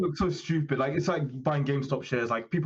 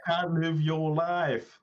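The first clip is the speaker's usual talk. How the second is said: slow, drawn-out mimicry of a friend; slow put-on friend's voice; Gage; much slower than usual. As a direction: stretch each word as you imitate him. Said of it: "that's a Gage".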